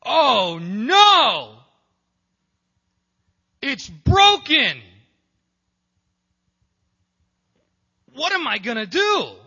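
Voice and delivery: mock God wailing, slow on "It's broken"; panicked God. God discovering the fall, hammed-up frantic wail. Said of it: "God goes".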